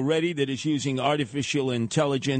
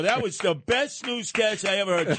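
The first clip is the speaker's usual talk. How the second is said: excited; 5 semitones higher than usual. Acted. Raving over the AI newscast.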